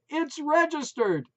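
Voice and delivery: high and loud; loud declaration. A narrator's reading. Wife declaring the dog's pedigree, loud. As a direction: proclaim it proudly. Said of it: "Maureen declared".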